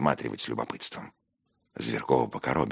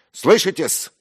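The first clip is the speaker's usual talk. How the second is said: high, loud, emphatic tirade; affronted shouting at a rival; indignant outburst; 13 semitones higher, 8 dB louder than usual. Acted. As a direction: drive each point home furiously. Narrator's outburst continues at dinner.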